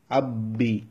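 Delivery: আব্বি with the ব held briefly before releasing; doubled consonant with a hold. Shown as a demonstration. Teacher demonstrates the short hold in আব্বি for students. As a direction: say আব্বি as আব্ then বি, a slight stop on the double ব. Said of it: "তাই এখানে সামান্য পরিমাণ থামতে হয়".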